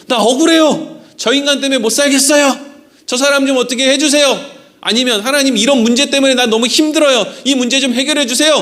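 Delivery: imitating a desperate plea to God; mock crying out. Pastor mimics a believer begging God, mock-desperate. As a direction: play a believer crying out in prayer. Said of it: "막 이렇게 하나님 앞에 부르짖었다는".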